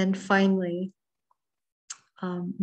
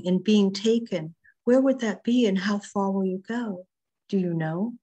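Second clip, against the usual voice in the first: measured, expressive reading of a poem with long pauses; poetry reading. Acted. Poet reading her sea poem to the online group, measured and expressive. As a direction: let each line land, savouring the images.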